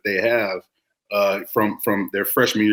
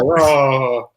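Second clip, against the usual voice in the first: imitated dog groan; 3 semitones higher, 5 dB louder than usual. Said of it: "He's like".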